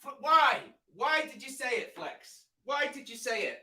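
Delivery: dismayed. Real, not acted. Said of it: "Oh, you're having a laugh".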